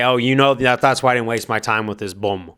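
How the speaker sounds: light Irish accent imitating Conor McGregor; a hint of a cocky Irish brogue; mock Irish accent, barely put on. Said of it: "that's my impression at a, at a Irish accent".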